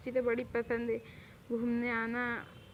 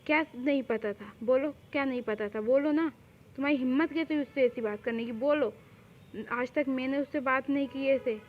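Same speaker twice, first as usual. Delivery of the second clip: indignant dressing-down with punched demands; acted, protective outrage; angry scolding. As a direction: demand an answer from someone who wronged a loved one. Scolding her for making Tae cry.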